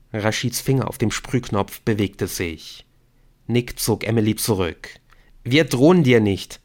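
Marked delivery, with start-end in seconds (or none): 5.4-6.6 quick, louder reassurance; hastily. A narrator's reading. Nick cuts in to reassure armed Rashid, hastily. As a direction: jump in to calm him. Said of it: "sagte Nick rasch".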